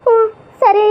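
a sob caught in the throat, then a meek okay; sobbing agreement. Acted. Niece answers the scolding grandfather, sobbing. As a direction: give in while still crying.

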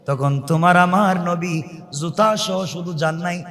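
ordinary delivery

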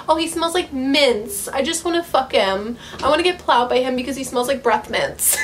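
lightly voiced breathless teen reader, swooning; mock swooning teen girl. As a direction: gush over him like a smitten teenager, lightly mocking. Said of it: "horny ass teenage girl writing".

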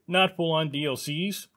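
talking through hiccups; hiccuping between words. Real, not acted. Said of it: "I'm still kind of hiccuping as I talk".

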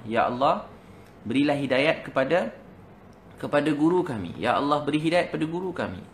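imploring appeal in broken phrases; pleading prayer. Retold or imitated. Students praying nonstop for their teacher, pleading prayer. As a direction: imitate students praying, pausing between phrases. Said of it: "Dia tak berhenti doa".

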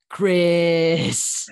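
high, loud cry of a name; shouted plea to wait; calling out. Acted. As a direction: yell it high and urgent to stop him. Performing a game character's lines.

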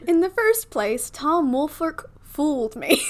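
breezy Southern belle reading; Southern debutante accent. Acted. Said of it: "in a Southern debutante accent".

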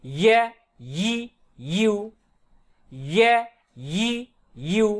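"ইয়া ই ইউ" with mid-tongue pressed to the palate; palatal ya. Shown as a demonstration. Teacher demonstrates ya from middle tongue, pressed y sound. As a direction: lean into the y glide in "ইয়া ই ইউ". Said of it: "চাপ দিয়ে উপর তালুর সঙ্গে লাগিয়ে".

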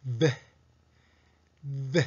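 ぶ as a buzzing English v, teeth on lip; voiced V. Shown as a demonstration. Teacher showing the voiced partner of F, buzzing v. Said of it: "声を出して発音してください".

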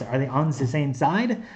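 light mock German accent, the said as ze; jokey German accent, barely put on; German accent to help students remember; bad German accent. Shown as a demonstration. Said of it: "In a really bad German accent".

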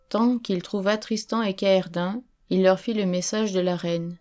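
ordinary delivery, nothing marked

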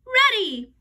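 high, loud eager shout. A narrator's reading. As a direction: shout it out in reply. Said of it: "Andrea and I shouted".

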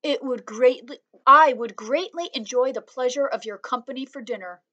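a kid playing at being posh; very proper voice. A narrator's reading. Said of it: "In a very proper voice".

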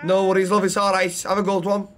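easygoing put-on Scouse; Scouse accent. Bystander answers patient's thanks, in Scouse accent. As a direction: brush off thanks in a Liverpool accent. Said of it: "Scouse, okay".

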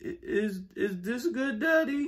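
put-on kid voice. Child voice asking daddy.

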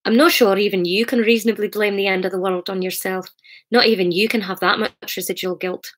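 put-on amateur Scottish accent; attempted Scottish accent. Author voices Hamish consoling Sarah, attempted Scottish accent. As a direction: have a tentative go at a Scottish accent. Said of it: "I was practicing the Scottish accent".

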